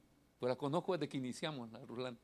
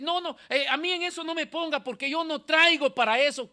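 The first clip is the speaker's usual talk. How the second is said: reluctant believer; 11 semitones higher, 10 dB louder than usual. Retold or imitated. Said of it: "a veces".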